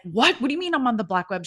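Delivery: loud, high, rushed mock shock; shocked disbelief. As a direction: fire back the question as if stunned. Retold girl's shocked reaction.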